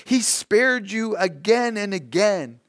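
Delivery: high-pitched, disbelieving reproach; shocked surprise. A narrator's reading. Aunt answering her nephew's outburst, wide-eyed with surprise. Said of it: "her eyes wide open with surprise".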